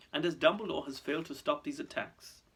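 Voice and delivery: continue unruffled; smooth. Acted. Malfoy blaming Dumbledore to Fudge, smooth. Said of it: "said Mister Malfoy smoothly".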